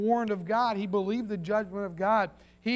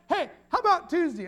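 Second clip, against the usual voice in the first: higher, louder acted nagging; lightly acted, insistent heckler; pestering questioner; 8 semitones higher, 5 dB louder than usual. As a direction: call out the question like an eager pest. Acted pestering about ark work.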